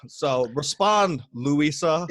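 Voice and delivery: slow, drawn taunt. Acted. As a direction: drag the words out to goad him. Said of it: "official call out".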